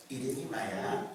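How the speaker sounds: put-on gentle sing-song praise for a little kid; talking to a small child. Shown as a demonstration. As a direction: coo like a grown-up charmed by a toddler. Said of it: "이렇게 말합니다".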